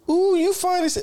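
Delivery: high put-on accent of an admiring Black woman; imitated woman's accent. Chick outside the store admiring him, imitated accent. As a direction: slip into the accent, voice jumping up high. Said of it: "I did it again".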